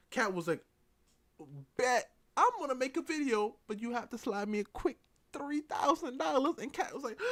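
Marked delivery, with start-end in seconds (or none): 1.7-6.5 loud, raised-pitch imitation of a hustler; brash deal-making. Cat demanding cash for a video, loud high mock hustle. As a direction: push the bargain loudly, mock-eager.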